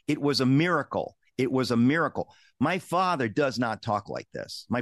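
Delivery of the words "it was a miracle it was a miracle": MIRACLE lifted and leaned on each time; firm, raised stress on MIRACLE; strongly emphatic. Retold or imitated. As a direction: quote dad insisting, punching MIRACLE. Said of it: "he says strongly".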